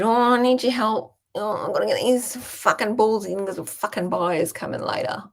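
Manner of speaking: a hint of a gruff farmer asking for help; farmer dad. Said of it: "and he said".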